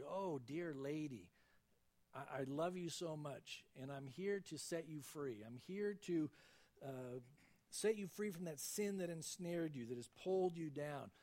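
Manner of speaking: tender. Retold or imitated. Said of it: "Oh, precious lady".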